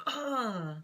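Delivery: mock exasperated groan. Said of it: "It's just that moment of".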